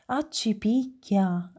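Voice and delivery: Accipicchia allungato, lento e meravigliato; esclamazione stupita. Acted. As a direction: stupore trascinato. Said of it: "esclamò". (Romoletto vede la Luna, Accipicchia lento e stupito)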